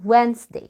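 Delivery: Wednesday as 'Wenz-day'; silent D. Shown as a demonstration. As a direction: say Wednesday as if the first D were absent. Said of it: "مش هنعبرها كأنها مش موجودة".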